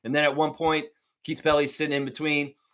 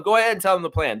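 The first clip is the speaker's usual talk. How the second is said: cheering him on; 5 dB louder than usual. Retold or imitated. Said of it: "And I'm like".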